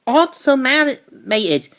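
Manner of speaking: spoiling for a fight; fired-up heroine. Retold or imitated.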